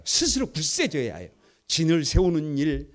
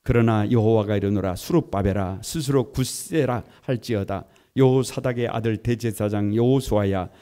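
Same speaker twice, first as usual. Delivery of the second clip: unison scripture reading; 6 semitones lower, 6 dB louder than usual. Real, not acted. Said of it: "다 같이 한번 읽어봅니다".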